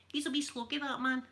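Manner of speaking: put-on Glasgow Ned accent, cocky and easygoing; a Scottish Ned cadging a drink. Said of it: "I can do Ned voice".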